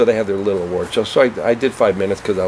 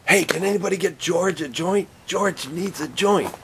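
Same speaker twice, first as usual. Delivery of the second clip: sucking-up comic; 9 semitones higher, 3 dB quieter than usual. Retold or imitated. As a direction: call out to the room like a suck-up. Imitating comic Larry calling out.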